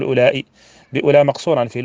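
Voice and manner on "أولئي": "أولئي" ending in an audible hamza plus i; with final hamza. Shown as a demonstration. Teacher showing students the form to avoid, "أولئي" with final hamza. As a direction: say "أولئي" with a glottal stop and short i at the end. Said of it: "معناها بدون همزة، لا تقول".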